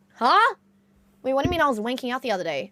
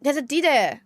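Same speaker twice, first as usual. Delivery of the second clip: imitating thick Norwegian English; mimicked Norwegian streamer accent; 2 semitones higher than usual. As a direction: repeat it with a falling Norwegian lilt. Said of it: "such a strong Norwegian accent".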